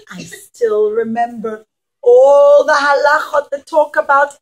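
loud, emotional plea from a son; earnest plea. Acted. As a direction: call out to your father with feeling. Yosef's earnest message to father.

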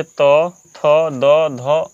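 each letter drawn out slowly, one by one; very slow letter recital. Shown as a demonstration. Teacher to students, reciting letters very slowly. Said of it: "त थ देखिए".

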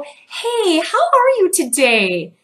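a high, bright hello to a grumpy man; cheery greeting. Retold or imitated. Greeting the grumpy parking attendant, a high cheery hello. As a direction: lift the grumpy man's day with a sunny hello. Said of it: "And I would just go".

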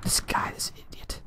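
annoyed whisper; whispered insult at the opponent. Real, not acted. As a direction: hiss it under your breath. Muttering at opponent.

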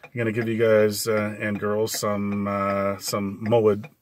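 stumbling over words; halting, tripping speech; stutter. Real, not acted. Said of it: "like, stuttering there".

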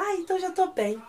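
high, chirpy acted relief; happy. Pogum cheers up after Psyr's compliment, acted happy. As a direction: brighten up at once, lightly imitating. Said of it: "Aí ele fica todo feliz".

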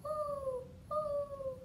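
high, soft hooting; owl hoot. Pretend. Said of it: "what does an owl say".

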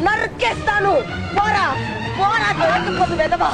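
rising enraged threat, slow at end; furious threat. Acted. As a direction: drive him out of the house. Grandmother threatens attacker.

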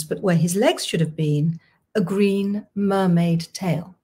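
unhurried, clear reading of a novel's opening; story narration. Acted. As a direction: read the first chapter aloud to listeners. Author reads her novel's opening.

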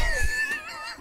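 very high, drawn-out squeal; mock high-pitched shriek. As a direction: let out a hammed-up horrified screech. Mimics the horrified shriek.

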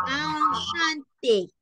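"enchanté" very slow, opening on a long nasal "ah"; modelo de pronunciación. Shown as a demonstration. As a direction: stretch out "enchanté" syllable by syllable. ("enchanté" muy lento y alargado)

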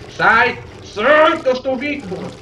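panicked yelling; startled shout. Real, not acted. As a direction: yell in sudden fright. Startled by something in game.

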